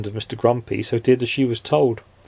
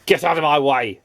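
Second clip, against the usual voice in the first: snapping; 4 semitones higher than usual. Acted. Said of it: "snapped Mister Grumpy".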